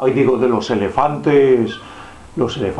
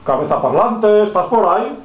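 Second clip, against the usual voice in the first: calling out; 7 semitones higher than usual. Pretend. Calling out to the head.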